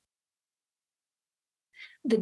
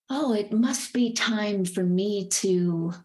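airy fairy voice. Acted. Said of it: "that kind of cloud, like, airy fairy voice".

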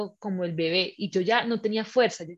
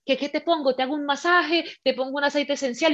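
higher, eager string of offers; lightly voiced partner; 5 semitones higher than usual. Partner offering massage to labouring woman, lightly mimicked fussing.

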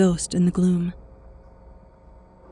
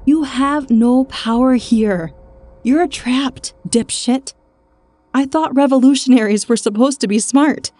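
contemptuous shout; 5 semitones higher, 6 dB louder than usual. A narrator's reading. Woman jeering at trapped man, loud and scornful. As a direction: rub his nose in it. Continues snapping at him.

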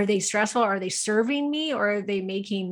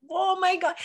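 much higher mock "Oh my God"; retold panic; 10 semitones higher than usual. Recalling the ten-thousand-dollar bill, mock alarmed high gasp. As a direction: replay the shock of the bill, pitched way up.

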